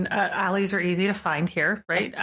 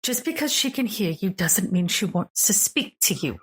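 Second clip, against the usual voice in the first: lightly voiced snippy NPC; 3 semitones higher than usual. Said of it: "you do hear".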